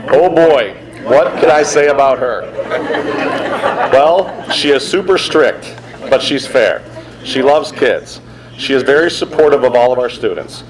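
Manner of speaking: a hint of a gruff football coach, easing to normal; Coach Willis voice. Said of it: "I'm gonna do this in my best Coach Willis voice".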